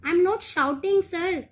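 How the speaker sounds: pupil protesting loudly he isn't shouting. Acted. Pupil tells teacher he isn't shouting, loud protest. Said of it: "ये स्वामीनाथन बोल रहा है".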